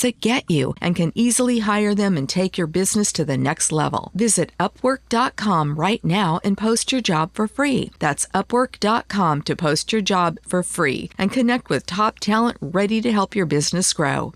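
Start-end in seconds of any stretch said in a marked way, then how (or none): 2.2-7.9 upbeat sponsor read. Acted. Ad read in podcast. 8.0-14.3 upbeat sponsor read. Acted. Ad read in podcast.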